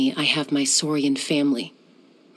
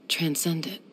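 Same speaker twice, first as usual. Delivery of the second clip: whisper; 6 dB quieter than usual. Acted. Quiet closing resolve.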